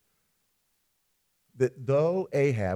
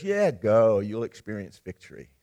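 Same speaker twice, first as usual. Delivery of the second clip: sarcastic; 3 dB louder than usual. Acted. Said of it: "Micaiah actually is sarcastic".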